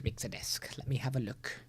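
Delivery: whispered under breath; whispering. Real, not acted. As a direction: whisper it to yourself. Muttering to himself while searching.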